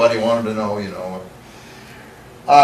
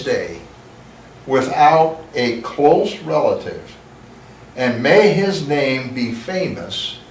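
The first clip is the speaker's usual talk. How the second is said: scripture reading. Acted. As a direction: read the verses with solemn weight. Reads scripture aloud.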